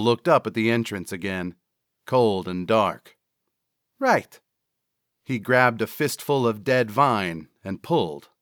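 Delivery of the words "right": dim sidekick pitched way up; high-voiced sidekick. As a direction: answer in a high, unsure character voice. Cecil's reply in dialogue.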